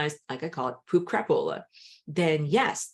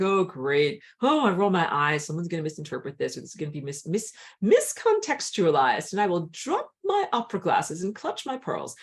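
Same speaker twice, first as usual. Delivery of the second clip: mock pearl-clutching; 4 dB louder than usual. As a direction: play the scandalised prude clutching her pearls. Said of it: "I'm like".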